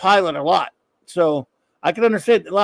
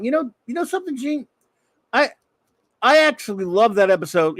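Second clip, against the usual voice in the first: high-pitched mock voice; 5 semitones higher than usual. High impression aside.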